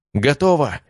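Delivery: high ringing call; triumphant shout. A narrator's reading. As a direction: call it out over the noise. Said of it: "раздался крик Арии".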